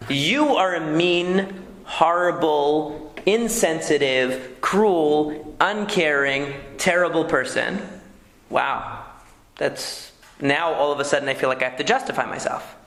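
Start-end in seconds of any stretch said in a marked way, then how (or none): 0.1-7.9 slow, drawn-out accusing tone; accusing spouse. Shown as a demonstration. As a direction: spell out each insult slowly and bitterly. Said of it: "if you say".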